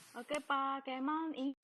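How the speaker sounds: words cutting in and out; choppy connection. Real, not acted. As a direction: voice breaking up on a bad line. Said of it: "suaranya putus-putus".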